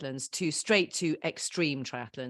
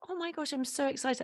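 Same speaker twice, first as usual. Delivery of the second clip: excited; 9 semitones higher, 4 dB quieter than usual. Retold or imitated. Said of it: "I was like".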